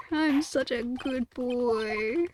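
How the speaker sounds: mock sweet self-praise. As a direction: coo it like praising a pet.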